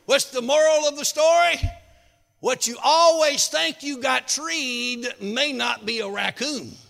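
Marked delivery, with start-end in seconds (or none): none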